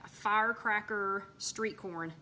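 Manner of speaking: whispered reveal of the dish name. Acted. Announces her new corn dish to viewers, whispered. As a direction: breathe the name out as a secret.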